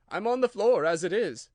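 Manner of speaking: a hint of a nervous hatter thinking; hesitant Hatter. A narrator's reading.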